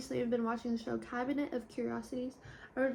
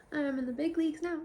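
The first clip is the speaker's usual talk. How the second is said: laughing; 5 semitones higher, 4 dB louder than usual. Real, not acted. Giddy about follower count.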